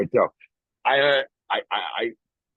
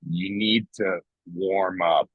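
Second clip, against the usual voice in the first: slow, slightly lower inner voice; 4 semitones lower, slower than usual. Acted. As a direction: play the tempting inner voice, drawn out. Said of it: "and then my voice goes".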